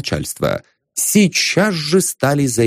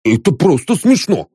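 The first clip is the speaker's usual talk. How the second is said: brazen, higher and cocky; insolent; 5 semitones higher than usual. Acted. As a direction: say it with cheek. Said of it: "нагло повторял Паша Емельевич". (нагло)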